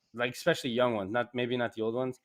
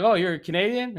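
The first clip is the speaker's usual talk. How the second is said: surprised; 7 semitones higher, 7 dB louder than usual. Retold or imitated. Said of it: "their whole tone changes towards me".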